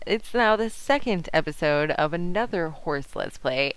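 ordinary delivery

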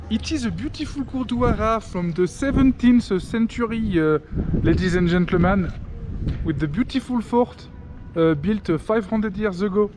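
playful fake French tour-guide accent; hammed-up French accent as a joking tour guide; mock French accent. Vlogger plays a French tour guide for viewers. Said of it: "when I speak with a French accent".

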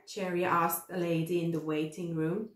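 usual speaking voice

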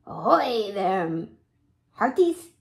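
hearty pirate greeting, lifting on hearties; a light pirate captain call. Acted. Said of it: "in his best pirate voice".

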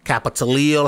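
Capitalil said as "kappa-ta-LEEL"; variant pronunciation. Shown as a demonstration. Offering viewers a third version of the word, variant pronunciation. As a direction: end Capitalil on a stressed "leel". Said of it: "however you wanna pronounce it".

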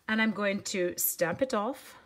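slipping into a British accent; accidental British accent. Real, not acted. Crafter demonstrating stamping to viewers, slight British accent. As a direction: drift lightly into British-accented speech. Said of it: "talking with a British accent".

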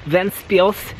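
strained, drawn-out "Ventspils"; constipated. Real, not acted. Walking through town saying a Latvian name, constipated. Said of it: "why do you sound constipated".

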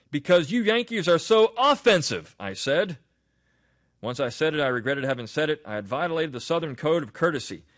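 measured, projected read-aloud with emphatic phrasing; reading an essay aloud. Acted. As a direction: read the essay out to listeners with deliberate weight.

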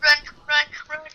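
loud panicked yelling to run; panicked shout. Real, not acted. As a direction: shout at your friend to flee. Fleeing the monster.

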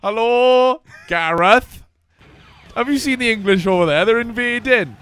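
lightly voiced Welsh saint; Saint David. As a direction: introduce yourself as a jolly character in a skit. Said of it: "I'll do his voice".

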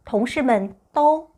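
同事们都 spoken very slowly; teacher reading 同事们都 slowly; slow model reading. Shown as a demonstration. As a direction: stretch each syllable of 同事们都. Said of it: "동료들 모두".

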